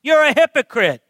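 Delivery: forceful, deliberate denunciation, building after the first word; indignant, authoritative. Acted. Jesus rebuking the religious leader to his face, indignant. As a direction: confront him squarely, without gentleness. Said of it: "get a little bit indignant right back".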